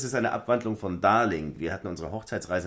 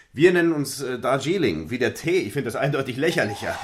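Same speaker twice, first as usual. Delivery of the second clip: calling loudly; 6 semitones higher, 8 dB louder than usual. Acted. Ruft laut aus Nebenraum.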